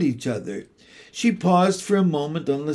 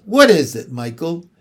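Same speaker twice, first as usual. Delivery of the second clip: louder, snapping question; cross interruption; 2 semitones higher, 7 dB louder than usual. Acted. Mrs Banks snapping at Michael tugging her skirt, cross. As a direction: break off crossly. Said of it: "She broke off crossly".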